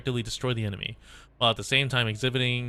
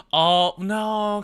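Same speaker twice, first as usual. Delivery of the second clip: high startled oh no; sudden high alarmed cry; surprised gasp; 10 semitones higher, 6 dB louder than usual. Real, not acted. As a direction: jolt up high and loud in alarm. Reacting in surprise to game scene.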